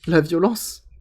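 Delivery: slow, amused laughing delivery. Real, not acted. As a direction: savour it through a laugh. Laughs, then repeats the phrase.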